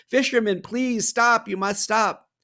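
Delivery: high-pitched pleading; begging. Acted. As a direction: beg him to stop. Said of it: "began to cry and beg".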